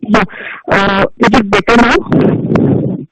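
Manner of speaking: garbled, slow phone audio; broken-up line; glitchy robotic call. Real, not acted. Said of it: "We can't hear you".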